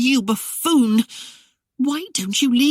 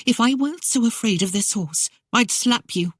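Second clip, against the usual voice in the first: higher, a mock threat; lightly voiced lady's threat, higher; threatening lady; 7 semitones higher than usual. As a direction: warn him off with a slap. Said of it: "she threatened".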